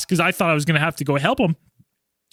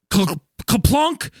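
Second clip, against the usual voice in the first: imitated clunk; 2 semitones higher than usual. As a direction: mimic something plopping into the water. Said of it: "I hear this".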